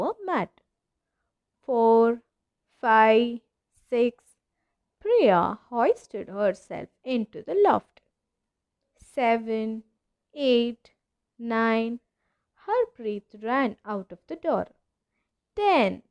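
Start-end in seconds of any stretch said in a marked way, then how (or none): 1.6-4.4 counting loudly. A narrator's reading. Counting aloud in hide and seek. 15.6-16.0 loud counting call; yelling. A narrator's reading. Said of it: "yelled Sania".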